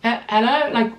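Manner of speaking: high, loud hello of disbelief; stunned and offended, calling it out; outraged disbelief. Real, not acted. Outraged at salesman's remark.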